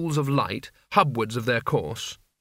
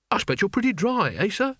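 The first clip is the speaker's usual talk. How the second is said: forced chumminess, pitched up; higher, ingratiating false bonhomie; ghastly camaraderie; 7 semitones higher than usual. A narrator's reading. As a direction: try too hard to be matey, voice lifted high. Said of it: "with an air of ghastly camaraderie".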